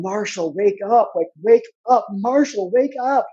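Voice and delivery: a mother yelling to wake her son, mostly high and loud; retold screaming. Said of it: "she's screaming on the phone".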